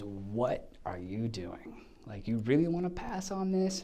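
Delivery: a lightly voiced exasperated agent; drawn-out mild mock disbelief. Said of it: "my agent calls me up and says".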